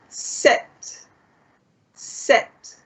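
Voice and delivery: whispered Sept; softly voiceless model word; near-whisper Sept; quiet. Shown as a demonstration. Teacher models numbers.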